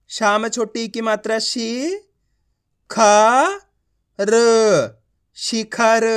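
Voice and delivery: शी, ख, र held apart, then blended as शिखर; slow spelling drill ending in शिखर; letter-by-letter reading. Shown as a demonstration. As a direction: model शिखर sound by sound with long gaps. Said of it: "आप इस तरीके से उच्चारण करोगे".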